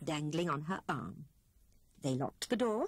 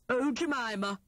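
exclamation; 4 semitones higher, 3 dB louder than usual. A narrator's reading. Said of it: "exclaimed Hare".

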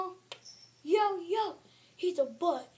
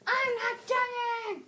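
mock protest; 5 semitones higher, much slower than usual. Cat protests being called dying.

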